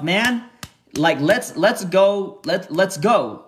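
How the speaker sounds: a burst of hype in your own head; pumped-up let's go. Retold or imitated. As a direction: cheer yourself on like you're winning. Hyped inner thought, thinking to yourself.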